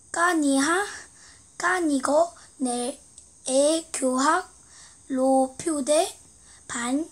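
reading Korean text backwards syllable by syllable; halting, careful backward reading; backwards speech. Shown as a demonstration. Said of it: "거꾸로 읽겠습니다".

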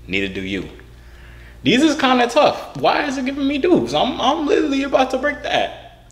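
speaking with new veneers; wearing veneers. Real, not acted. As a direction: through snap-on teeth. Seen 2: Very even bright white teeth visible whenever he talks or smiles.

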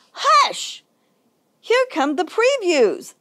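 called-out hush. A narrator's reading. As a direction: shush the audience as the previews start. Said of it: "The lovebirds called".

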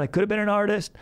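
put-on high-pitched self-pitying drunk; mock sad. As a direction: confess like a sad drinking buddy. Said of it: "then it's gonna get sad".

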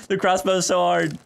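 a laugh running through the words. Real, not acted. Streamer laughing at his own missed crossbow shots, laughing. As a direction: laugh it out, frustrated.

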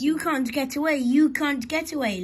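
high singsong teasing; laughing taunt. A narrator's reading. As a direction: chant it mockingly in a high voice. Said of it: "laughed the coaches".

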